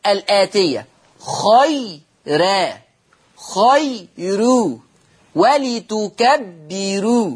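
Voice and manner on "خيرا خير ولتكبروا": خيرا with a thin light ra, drawn out slowly; slow recitation of خيرا خير ولتكبروا with softened ra; tarqiq demo. Shown as a demonstration. Teacher demonstrating Warsh's light ra to students. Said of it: "هكذا".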